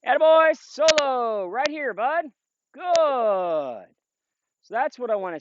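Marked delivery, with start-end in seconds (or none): 0.1-3.9 high-pitched attaboy to the dog; high encouraging praise. Real, not acted. Trainer coaxing Solo back to heel, high upbeat praise. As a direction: coax him back in, all encouragement.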